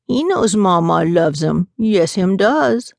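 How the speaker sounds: put-on slow doting baby talk to a pet; baby talk to dog. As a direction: drawl it out like cooing at a puppy. Grandma baby-talking the dog.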